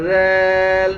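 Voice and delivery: দাল begun with a soft lisped "z", held long; soft zal. Shown as a demonstration. Teacher correcting learners, soft drawn-out zal. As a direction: soften the start to a long "dhaal". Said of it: "নরম করেন".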